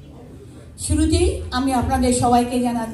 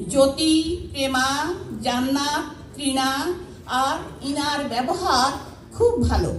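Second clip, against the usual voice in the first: measured recital in short phrases with pauses; simple spoken verse, pausing between phrases; poem recitation. Acted. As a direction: recite your own poem to a gathering, phrase by phrase. Recites own poem to audience.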